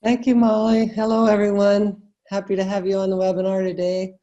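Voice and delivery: hoarse, croaky frog voice; talking through a sore, croaky throat. Real, not acted. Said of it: "torment you with my frog voice".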